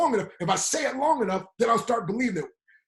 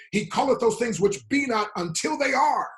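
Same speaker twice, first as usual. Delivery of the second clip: preaching shout; 4 semitones higher, 3 dB louder than usual. Acted. Preacher proclaims his own version.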